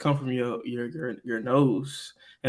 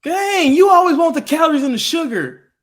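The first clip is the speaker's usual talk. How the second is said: high, loud mock outrage; exasperated teasing; 14 semitones higher, 9 dB louder than usual. Real, not acted. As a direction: throw it at her, exasperated.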